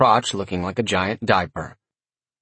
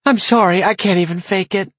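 giggling; 9 semitones higher, 4 dB louder than usual. A narrator's reading. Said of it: "broke down into snorts and giggles".

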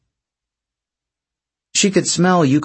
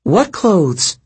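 demanding; 7 semitones higher than usual. A narrator's reading. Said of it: "Piper demanded".

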